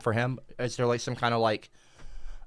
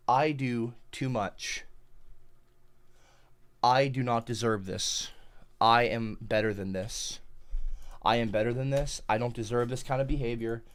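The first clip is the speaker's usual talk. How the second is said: mock self-pity; 6 semitones lower, 9 dB quieter than usual. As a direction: sigh it out, hard done by. Self-pitying lament.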